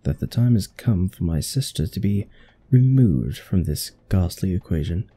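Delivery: put-on lightly done British accent, drifting toward Australian. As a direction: read the villain's plotting in a mild British accent. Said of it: "just default to British".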